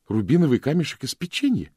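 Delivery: high, loud astonished question; amazed. A narrator's reading. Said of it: "изумлённо проговорил Джонни". (изумлённо, высоким голосом)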